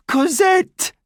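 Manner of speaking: high cry for her daughter; calling out. Acted. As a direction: call out the child's name desperately. Dying mother calls her child.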